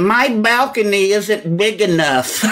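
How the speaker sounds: put-on comic cranky old man voice; old angry guy. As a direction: grumble slowly like an angry old passenger. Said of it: "I do my old angry guy".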